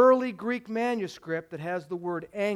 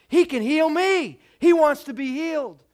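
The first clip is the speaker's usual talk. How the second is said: higher, louder eager hope; excited lepers; 7 semitones higher, 6 dB louder than usual. Retold or imitated. Lepers hearing of Jesus, excited and higher. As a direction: sound thrilled by the news. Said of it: "really excited".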